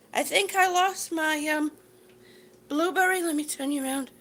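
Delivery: winded while walking in place; breathless from stepping; out of breath. Real, not acted. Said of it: "Whew, I'm out of breath here".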